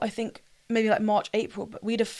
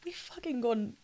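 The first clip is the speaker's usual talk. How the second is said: hushed under-breath swear; whispered swear; 3 semitones higher, 9 dB quieter than usual. Real, not acted. Hushed swear mid-joke.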